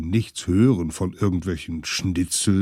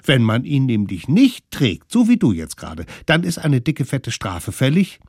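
put-on higher, loud know-it-all children; loud bossy kid voice; bossy kids' voice; 5 semitones higher, 7 dB louder than usual. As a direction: lecture him like bossy little kids. Kids lecture mammoth.

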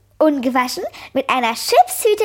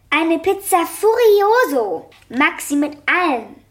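higher, louder call from across the room; girl calls her pizza order over; 4 semitones higher, 3 dB louder than usual. Acted.

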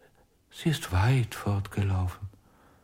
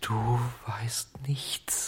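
whisper; 6 dB quieter, slower than usual. Acted. Puppet whispers to ventriloquist.

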